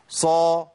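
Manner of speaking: صا held long, fully emphatic; very heavy sad. Shown as a demonstration. Teacher contrasting heavy letters, strongly emphatic sad. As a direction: fill out صا with a dark heavy vowel. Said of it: "فبيخلي الحرف مفخم قوي".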